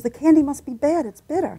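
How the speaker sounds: lightly voiced confused grandfather; puzzled grandpa. Grandfather explaining.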